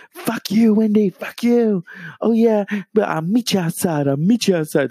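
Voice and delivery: mock threatening diva; singer impression. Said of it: "she's like".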